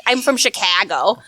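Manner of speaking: slow, exaggerated Chicago-accent "I'm from Chicago"; mock Chicago accent. Mocking how nobody really says "I'm from Chicago". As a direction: drawl "Chicago" like a caricatured local. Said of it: "I've never once heard anybody be like".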